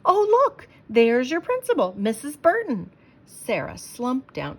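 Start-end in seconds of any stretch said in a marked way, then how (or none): 0.1-2.9 much higher, louder excited call; excited spotting. Acted. Dad spotting the principal, excited. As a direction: point her out with delight.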